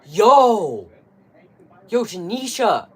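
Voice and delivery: loud, high shout across a crowd; prank shout. Pretend. Calling out a cheater by name, loud mocking shout. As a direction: yell it out to expose them in public. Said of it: "you gotta go to them and be like".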